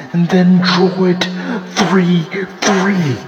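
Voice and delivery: high, incredulous questioning; shocked disbelief. Real, not acted. Fan asking how a dominated game was drawn, shocked. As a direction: pitch it up in exasperated disbelief. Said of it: "I'm just shocked".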